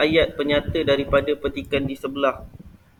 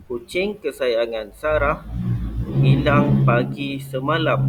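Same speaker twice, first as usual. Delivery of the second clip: slow repeat of the model reading with a falling statement tune; careful reading with intonation. Shown as a demonstration. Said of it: "ni Ustaz akan bacakan". (ulang bacaan contoh dengan intonasi ayat penyata)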